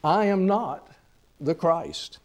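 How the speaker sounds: "I am not", pause, "the Christ", stated clearly and directly; clear, direct denial, split by a pause; explicit denial. Retold or imitated. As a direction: set "not" apart with a deliberate pause. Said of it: "for he answered explicitly".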